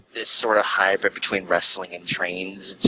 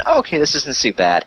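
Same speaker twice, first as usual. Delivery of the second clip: retold relief; 8 semitones higher than usual. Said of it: "Initial reaction".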